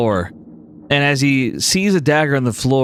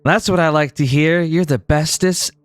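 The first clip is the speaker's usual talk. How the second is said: higher, pleased Bloom voice; gushing diva; 4 semitones higher than usual. Acted. Bloom praising her buffalo as bestest friend, gushing. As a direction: praise your pet with a girlish lilt.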